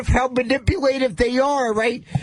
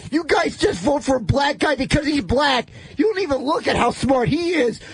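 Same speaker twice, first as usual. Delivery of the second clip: ranting. Acted. Rant about voters.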